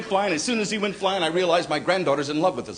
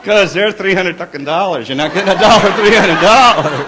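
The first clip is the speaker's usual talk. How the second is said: smiley ventriloquism; 5 dB louder than usual. Retold or imitated. Husband refusing his wife through a fixed smile. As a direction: speak through a fixed smile, lips barely moving. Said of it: "universal male smiley ventriloquism act".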